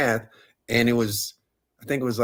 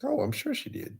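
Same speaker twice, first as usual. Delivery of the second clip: sarcastic echo; 8 dB quieter than usual. Real, not acted. Echoing cohost's doubt about money.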